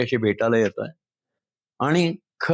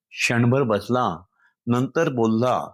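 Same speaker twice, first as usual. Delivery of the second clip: slow recitation; 3 semitones lower, slower than usual. Shown as a demonstration. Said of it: "ते मी थोडंसं तुम्हाला कवितेतनं सांगतो".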